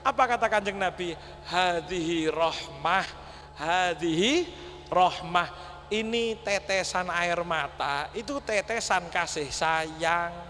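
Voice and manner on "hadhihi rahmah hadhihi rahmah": gentle Prophet's words. Acted. Prophet's words quoted slowly.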